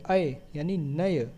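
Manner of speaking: अय and नय said slowly, syllable by syllable; sounding out syllables. Shown as a demonstration. Teacher sounds out the sandhi for students, slowly. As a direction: spell out अय then नय slowly. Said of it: "तो क्या हो गया?".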